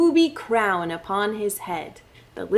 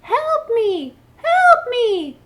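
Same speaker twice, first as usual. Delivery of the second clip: high, pleading cry for help; 11 semitones higher, 5 dB louder, much slower than usual. Acted. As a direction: call out like a trapped little snake. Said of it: "the sound of crying".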